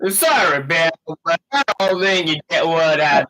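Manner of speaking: hammed-up Western twang; Western accent. Friend joining in on Lucas's line, mock Western accent. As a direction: take over the bad Western impression. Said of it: "like, a weird, like, Western accent".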